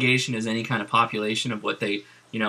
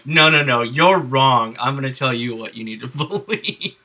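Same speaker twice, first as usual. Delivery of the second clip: mock overruling; 4 dB louder than usual. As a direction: overrule them mockingly, then crack up. Mocks officials overruling the vote.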